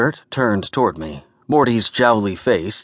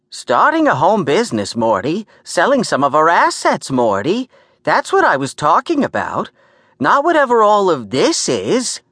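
high-pitched, sharp New York lecturing; exasperated New York woman; 8 semitones higher, 3 dB louder than usual. Acted. Gert explaining what she meant to Morty, exasperated New York scolding. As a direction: lecture him point by point, voice pitched up.

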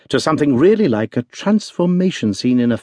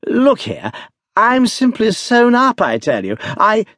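much higher, urgent begging; desperate pleading; 10 semitones higher than usual. A narrator's reading. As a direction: beg the doctor, voice cracking upward. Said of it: "trying affectionately to capture the doctor".

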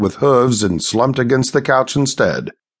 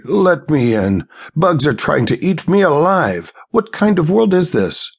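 rising higher, pleading outside the door; high-pitched; 6 semitones higher than usual. A narrator's reading. Stranger at the door pleads to get in, high-pitched. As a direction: pitch climbs in panic at the bugs. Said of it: "His tones high-pitched".

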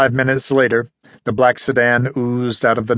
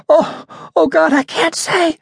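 frightened stammer. A narrator's reading. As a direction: stutter it out, scared stiff. Terrified captive.

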